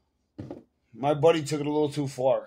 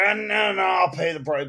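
backpedaling shout; 4 semitones higher than usual. Retold or imitated. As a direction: shout it out, caving fast on the price. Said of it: "And they're like".

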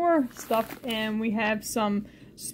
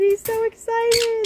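higher, slow sing-song to the bird; pet-talk coo; 10 semitones higher, 4 dB louder, slower than usual. Real, not acted. Owner coos to her excited bird in high sing-song.

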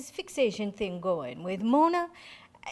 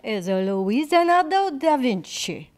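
mock Italian accent; 6 dB louder than usual. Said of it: "the wrong accent".

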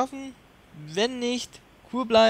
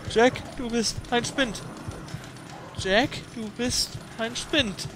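slow mantra; 5 semitones higher, slower than usual. Shown as a demonstration. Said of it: "slow repeated mantra".

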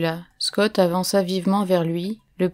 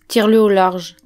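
louder, firm order; a raised-voice instruction; commanding; 7 dB louder than usual. A narrator's reading. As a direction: call out the command forcefully. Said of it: "commanda Scott".

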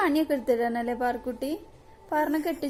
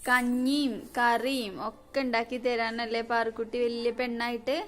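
coaxing. Real, not acted. Coaxing crying daughter gently.

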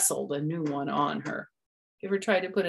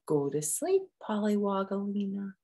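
soft soothing; 4 semitones higher, 3 dB quieter than usual. Acted. Lullaby to baby.

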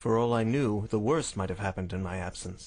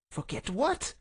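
high, pointed question; challenging; 11 semitones higher, slower than usual. Acted. Visitor challenges the sick man, pointed. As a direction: demand he spell it out.

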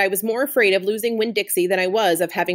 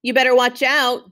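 hollered; 3 semitones higher, 3 dB louder than usual. Acted. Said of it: "Dunlap hollered".

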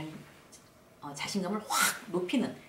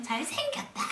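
mock fan yell. Fan calling to a favourite player, high mock yell. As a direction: imitate a besotted fan yelling. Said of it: "막 소리소리 지르고".

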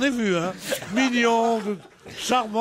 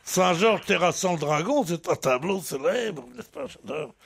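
badly faked Belgian accent, pitched lower; 5 semitones lower than usual. Commenting on a famous painting, in a bad Belgian accent. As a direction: put on a poor Belgian accent. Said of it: "je fais très mal l'accent belge".

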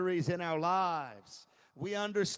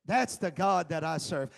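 rising declaration; 5 dB louder than usual. Shown as a demonstration.

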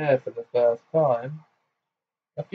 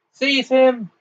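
much higher, loud command; shouted order; 12 semitones higher, 7 dB louder than usual. Acted. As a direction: bark the order. Fudge ordering his aurors.

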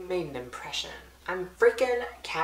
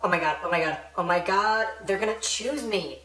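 panicking. Acted. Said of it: "Prim is panicking".

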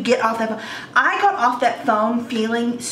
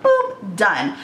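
playful hang-up sound; mock cheerful boop; 4 semitones lower than usual. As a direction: chirp it bright and cut it off. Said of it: "I would have been like".

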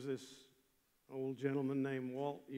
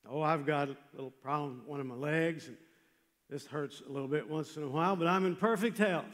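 quoted confident man; 7 dB louder, faster than usual. Retold or imitated. Preacher quotes a man before his death, loud and confident.

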